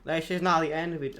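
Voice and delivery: half-hearted stab at Irish; lightly attempted, unconvincing Irish accent; failed Irish accent. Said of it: "I can't do an Irish accent".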